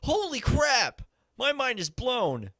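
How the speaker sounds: loud high astonished outburst; slow amazed exclaim. Real, not acted. Amazed at jumping trick.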